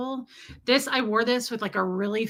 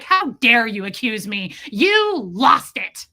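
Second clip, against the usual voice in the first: louder, slow indignant denial; 7 dB louder, slower than usual. Retold or imitated. Answering Tommy's doubt with mock indignation. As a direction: act offended and deny it. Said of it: "I was like".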